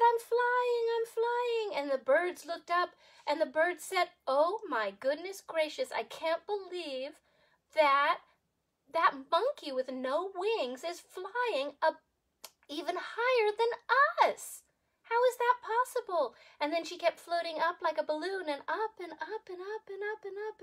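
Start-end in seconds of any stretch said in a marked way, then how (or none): 0.0-1.7 much higher, louder cry of joy; joyful cry. Acted. Monkey soars with joy. 4.3-16.4 amazed birds. Acted.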